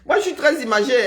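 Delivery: a real laugh breaking through the words; amused, laughing aloud. Real, not acted. Laughing at her own story.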